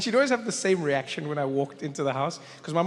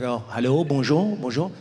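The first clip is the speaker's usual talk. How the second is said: put-on lower-pitched French accent; older French gentleman; 3 semitones lower than usual. Older French attendant to lost traveller, French-accented greeting. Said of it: "There's an older French gentleman".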